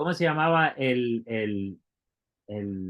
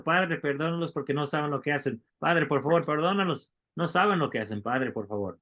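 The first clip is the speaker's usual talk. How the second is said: mildly raised, imploring repetition; lightly acted ongoing prayer; repeated plea; 3 semitones higher than usual. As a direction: keep asking, as if over and over. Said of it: "fue algo que seguía diciendo".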